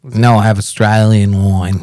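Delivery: slow, slightly rough go at Australian; attempted Australian accent. Joking about his wine to friends, attempted Australian accent. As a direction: try on an Australian accent, drawn out. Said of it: "The Australian's really fucking hard".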